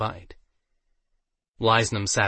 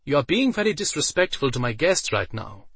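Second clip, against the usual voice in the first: nervous; 5 semitones higher than usual. A narrator's reading. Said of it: "Aiden said nervously".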